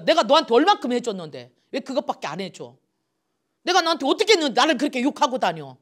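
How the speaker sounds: loud, hurt reproach, picking up speed; wounded friend accusing, fast at the end; resentful complaint. Retold or imitated. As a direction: throw the grievance at them.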